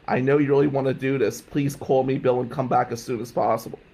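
measured imitation of a recorded message; answering machine message. Doctor leaving message for student, lightly imitated recorded plea. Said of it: "went something like this".

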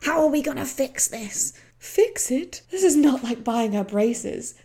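mock-angry quoted argument; Pam's anger, re-enacted. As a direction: re-enact an indignant mother pushing back. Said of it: "Pam's angry".

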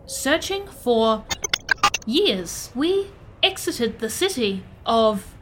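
slow, measured robot speech; halting robot recalling its journey; literal-minded robot. Acted. Plays a robot character.

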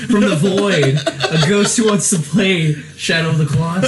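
high, loud spooky ghost voice; laughing spooky ghost from the void. Pretend. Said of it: "who is this mystery ghost voice".

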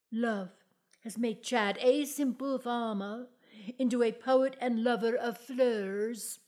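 over-dramatic poetry recital; hammy stage actor. Acted. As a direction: declaim it like grand theatre. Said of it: "Antelope Twomey pod play".

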